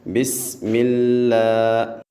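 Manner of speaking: slow tajweed recitation of بسم اللہ الرحمن. Shown as a demonstration. Teacher reciting the correct way for pupils. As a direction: recite it drawn out, thin اللہ. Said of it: "کیسے پڑھنا ہے؟".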